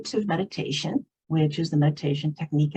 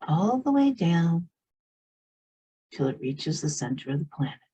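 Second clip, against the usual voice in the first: unhurried meditation guide with long pauses; guided meditation. Real, not acted. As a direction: lead them gently inward, leaving space between phrases.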